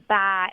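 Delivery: "Bye" said with an American twang; Americanised "Bye"; American pronunciation. Shown as a demonstration. Aussie singer showing her picked-up American habits, American-sounding "Bye". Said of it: "noticed a few American things I say".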